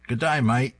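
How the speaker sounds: cheerful put-on Australian accent. Andrea greets husband Roger over pancakes in a mock Australian accent. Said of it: "What's with the Australian accent?".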